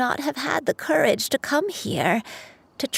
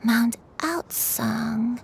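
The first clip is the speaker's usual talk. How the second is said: choked up; much slower than usual. Acted. Granny recognizes mountain, cries.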